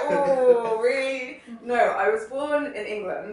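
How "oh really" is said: high, loud, drawn-out mock surprise; exaggerated incredulous "oh, really"; retold surprise. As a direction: act out a taken-aback reaction, pitched way up. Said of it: "I made a face as well. I was like".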